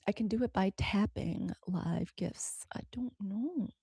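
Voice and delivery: whispering to herself; whispered. Real, not acted. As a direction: say it under her breath. Muttering while figuring out app.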